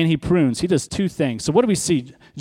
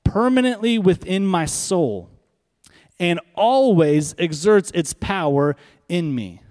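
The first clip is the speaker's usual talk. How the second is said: slower repeated reading; 2 semitones higher, slower than usual. Shown as a demonstration. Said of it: "Let me say it again".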